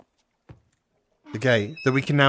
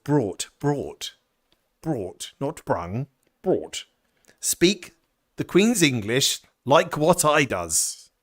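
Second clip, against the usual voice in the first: put-on reads the journal in a vague folksy rural accent; half-improvised rustic accent; unplaced rural accent; much slower than usual. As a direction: give the writer a rough country accent, lightly. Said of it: "I don't know what accent this is".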